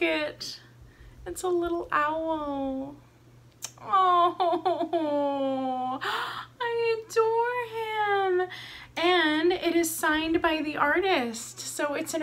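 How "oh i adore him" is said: laughing through happy tears; choked up with delight over the owl; teary laugh. Real, not acted. Unboxing her owl pendant, laughing through tears.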